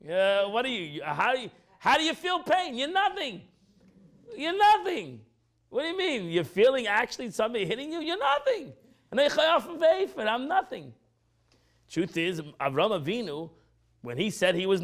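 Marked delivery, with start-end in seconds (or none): 0.0-10.9 mock yell. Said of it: "He started screaming".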